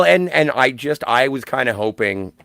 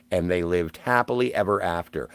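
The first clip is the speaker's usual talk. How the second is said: fairy-tale ending; 5 semitones lower, 4 dB quieter than usual. Shown as a demonstration. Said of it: "Welcome to Once Upon a Time in Hollywood".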